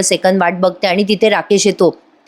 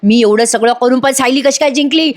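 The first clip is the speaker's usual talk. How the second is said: higher-pitched acted protest, climbing at the end; retold angry yell; 4 semitones higher than usual. Priya refusing to let Sayali win, mild mock yell. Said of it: "ती एवढ्या मोठ्याने ओरडते".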